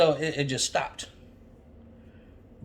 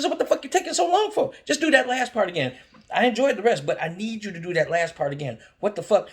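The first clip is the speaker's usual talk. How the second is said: loud, much higher impatient demand; half-shout, fed up; exasperated yell; 8 semitones higher, 5 dB louder, faster than usual. Retold or imitated. Retold demanding outburst.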